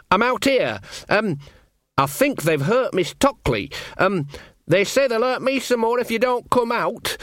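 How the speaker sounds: scared lad rushing to warn her; anxious boy. Acted. Sean warning Magrat through the door, high and anxious.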